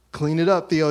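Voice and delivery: loud mock order, repeated firmly; bossy order. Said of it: "he follows up with".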